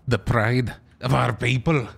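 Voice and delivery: put-on Scottish brogue; Scottish accent. Shown as a demonstration. Quoting Braveheart to friends, mock Scottish accent. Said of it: "What about Scottish?".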